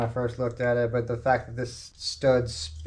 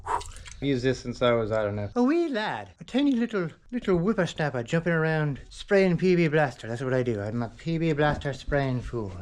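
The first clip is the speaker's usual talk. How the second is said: Southern accent. Real, not acted. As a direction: slip into a folksy Southern accent. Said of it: "come into this accent when I talk about P B Blaster".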